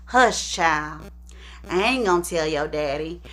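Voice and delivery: hushing mother. Retold or imitated. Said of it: "So Ederline goes on to say".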